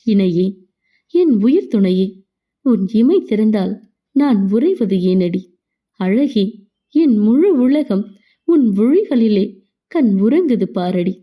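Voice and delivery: slow, measured verse with pauses between phrases; love poem recital. A narrator's reading. Narrator recites a verse to a beloved, tender poem reading.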